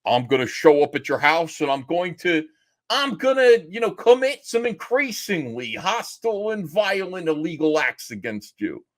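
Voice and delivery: lightly voiced over-the-top wrestler menace; mock Riley threat. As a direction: play up a hostile troll's threat. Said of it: "Riley's like".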